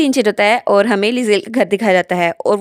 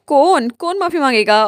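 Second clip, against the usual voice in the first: crying defiance; 4 semitones higher than usual. Acted. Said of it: "लपेल रोते हुए कहता है".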